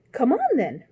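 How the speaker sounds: loud, high roar. A narrator's reading. Queen roaring at Alice to join. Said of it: "roared the queen".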